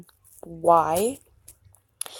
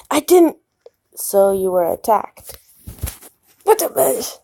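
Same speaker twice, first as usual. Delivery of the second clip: heated shout; 3 semitones higher, 7 dB louder than usual. Acted. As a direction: argue it out hotly. Heated loud exchange.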